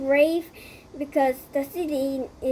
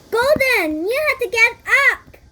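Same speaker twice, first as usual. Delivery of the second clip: louder, higher, fast call; urging friend; 7 semitones higher, 7 dB louder than usual. Acted. Benny urging Golden to get up, loud fast call. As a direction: rouse a friend from bed.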